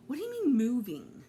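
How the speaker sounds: can't believe what he just heard; shocked disbelief. Acted. Shocked friend hears about moving.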